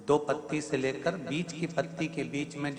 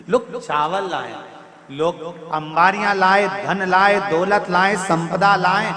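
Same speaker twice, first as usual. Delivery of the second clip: climbing higher and louder with each line; rising sermon climax; 6 semitones higher, 10 dB louder than usual. Acted. Preacher to devotees, rising fervent climax. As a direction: build the list like a preacher swelling to a peak.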